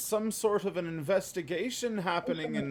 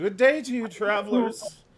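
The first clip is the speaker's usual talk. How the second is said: loud, a little shaky, wavering voice; 4 semitones higher, 7 dB louder than usual. Voicing a robed figure greeting travelers: shaky robed figure voice. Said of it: "the voice seems a little, like, shaky".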